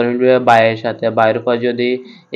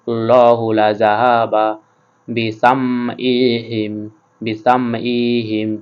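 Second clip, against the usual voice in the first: slow, drawn-out chanted words; slow recitation; much slower than usual. Shown as a demonstration. Teacher asking students to read along, slow chant. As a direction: recite slowly for the class to repeat. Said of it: "আপনারা আমার সাথে সাথে পড়ুন".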